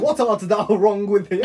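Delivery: laughing, lightly put-on old English; half-hearted medieval peasant puzzling; mock Shakespearean villager.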